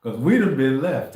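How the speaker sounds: loud preaching burst; fervent preaching. Real, not acted. Preaching with rising fervor.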